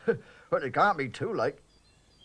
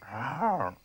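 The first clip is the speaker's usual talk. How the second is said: a timid half-roar; feeble roar. Shown as a demonstration. Parsley tries out a roar for the constable, weak and timid. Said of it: "you've got a fierce roar".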